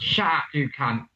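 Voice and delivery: lightly put-on Cockney warm-up; rough-and-ready Cockney practice line; Cockney accent. Shown as a demonstration. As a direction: try out a mock Cockney insult. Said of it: "say some Cockney again".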